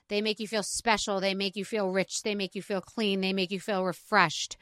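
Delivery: scripted podcast plug in an easy voice; sponsor ad read. Real, not acted. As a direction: sell it smoothly, lingering on the luxurious words. Host reads bedding sponsor ad.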